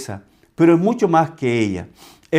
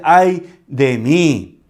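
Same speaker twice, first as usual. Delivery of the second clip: slow lament; 4 dB louder, much slower than usual. Retold or imitated. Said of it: "No, él dice".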